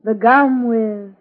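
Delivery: drawn-out slogan with a dramatic gasp; slow ad slogan. Acted. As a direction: say it at half speed, gasping before breathtaking. Closing slogan of gum advert.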